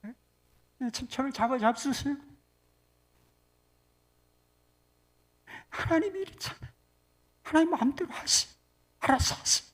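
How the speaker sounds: mock defiant resignation; do-your-worst prayer. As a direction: give up on God in a huff. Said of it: "배째라 기도가 있대".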